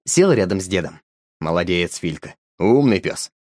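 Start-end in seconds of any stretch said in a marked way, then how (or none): 1.4-3.3 gently reward the dog; praising. Acted. Grandpa praises the dog, warmly. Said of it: "похвалил дед напарника".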